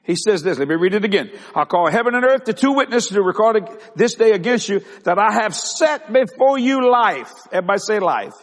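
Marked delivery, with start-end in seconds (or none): 1.6-7.3 raised, emphatic scripture reading; preaching scripture. Acted. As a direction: proclaim the verse to the congregation. Reads scripture while preaching.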